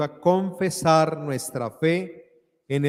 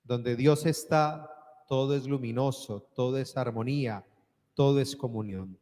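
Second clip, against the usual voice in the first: preaching. Acted. Homily before closing prayer.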